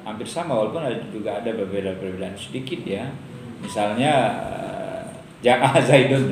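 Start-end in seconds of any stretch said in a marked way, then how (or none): 5.4-6.3 "Ja'a Zaidun" recited in Arabic, louder, with a falling end; Arabic example. Shown as a demonstration. Lecturer reciting an Arabic grammar example to students. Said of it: "contohnya paling gampang".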